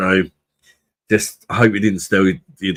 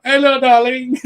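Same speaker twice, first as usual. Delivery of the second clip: put-on very high, louder Indian accent hello; shopkeeper's Indian accent; 6 dB louder than usual. Shopkeeper greeting loudly every time, high Indian accent. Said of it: "there's like".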